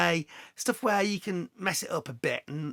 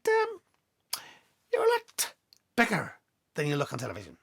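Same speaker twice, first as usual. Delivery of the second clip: put-on Scottish accent. Handler teasing the presenter's size, in a Scottish accent. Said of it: "Excuse the Scottish accent".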